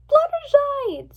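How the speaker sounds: long, high, loud call; drawn-out alarmed yell; shouted name. A narrator's reading. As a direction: shout after a friend being taken away. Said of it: "Twilight shouted".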